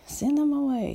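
exasperated command, pitched well up; annoyed disciples. Retold or imitated. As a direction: play the disciples waving the kids off. Disciples shooing the children away.

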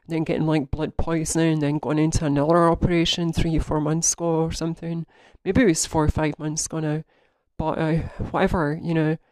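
bent over while talking; touching toes. Real, not acted. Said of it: "I'm doing bent over voice exactly as I'm recording now".

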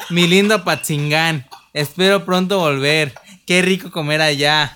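loud, sappy mock nostalgia, laughing; mocking Facebook post. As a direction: ham up a corny homesick post. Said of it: "y ponen". (nostalgia cursi en tono de burla)

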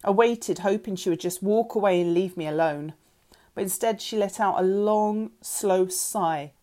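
ordinary delivery

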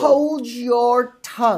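drawn-out, high stepmother threat; lightly hissed wicked stepmother; slow menacing stepmother. A narrator's reading. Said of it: "she says".

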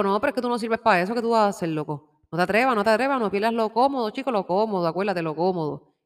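a lightly voiced nagging ego, quick and pushy; a hint of the ego talking you out of it. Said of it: "Pero entonces la voz del ego". (un toque de la voz del ego, insistente)

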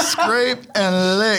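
slow words broken by laughter; laughing through it. Real, not acted. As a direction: giggle the phrase out. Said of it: "laughing repeat".

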